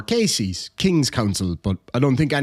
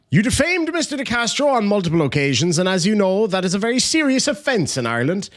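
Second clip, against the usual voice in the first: mock pompous lawyer; 6 semitones higher than usual. Mock reading of lawyer email.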